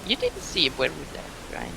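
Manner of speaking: whispered question. Acted. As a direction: whisper it discreetly to a companion. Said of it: "and I whispered".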